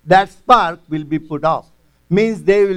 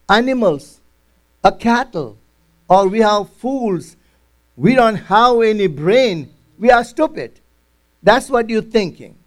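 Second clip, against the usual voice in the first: mildly angry friend; 3 semitones higher than usual. Retold or imitated. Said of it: "this man is little bit angry".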